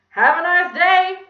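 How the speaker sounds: put-on high, loud, drawn-out kid voice; Kathy. A narrator's reading. Villain mimicking a pupil's goodbye, high and loud. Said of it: "said Kathy's voice".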